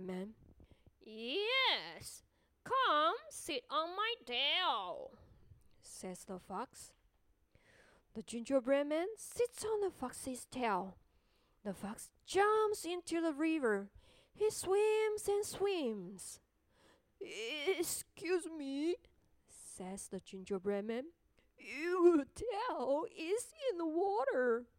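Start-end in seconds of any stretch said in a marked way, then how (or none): 1.0-5.2 slow, coaxing sly fox. Acted. Fox speaks. 17.2-19.0 slow, polite little voice; gingerbread man voice. Acted. 21.6-24.7 slow, worried little voice; gingerbread man voice. Acted.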